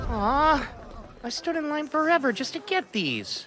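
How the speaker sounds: disappointed whine. Acted. Disappointed over lost purchase.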